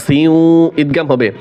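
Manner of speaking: slow melodic tilawat, each word drawn out; measured devotional chanting; Quran recitation. Acted. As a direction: chant the verse with long held vowels.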